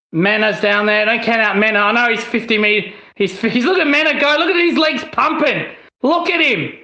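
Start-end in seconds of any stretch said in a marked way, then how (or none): 3.6-4.4 excited. Real, not acted. Fan excited at a run. 4.4-6.7 excited. Real, not acted. Fan excited watching a run.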